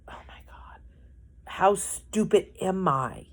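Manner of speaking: breathless whisper to herself; whispered self-scolding. Retold or imitated. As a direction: whisper it as if alone in the car. Crying in car, scolding herself.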